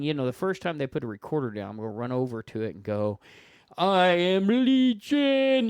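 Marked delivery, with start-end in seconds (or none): 3.8-5.7 high, loud, slow demonic boom. Pretend. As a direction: drag it out like a possessed spirit. Pretending to be demonic ghost.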